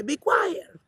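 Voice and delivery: very high, dainty mock-proper voice; prim polite hush. Crowd's polite version of silencing him, very high and prim. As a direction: say it as a prissy polite lady. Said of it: "Para que sea más decente".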